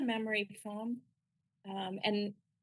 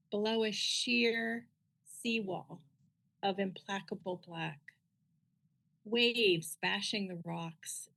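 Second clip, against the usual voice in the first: measured poem recitation with long pauses; unhurried, deliberate poetry-reading voice; slower than usual. Acted. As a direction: read it as verse, slowly, phrase by phrase. Reads own poem aloud.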